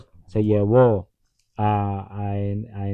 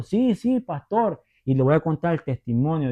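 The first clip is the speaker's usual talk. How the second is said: alegre; 4 semitones higher than usual. Retold or imitated. La sierva responde con alegría.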